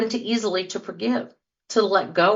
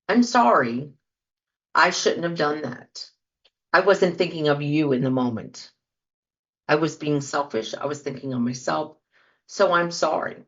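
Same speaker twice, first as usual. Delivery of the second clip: sincere apology; 3 semitones lower than usual. Shown as a demonstration. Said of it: "stands up and says".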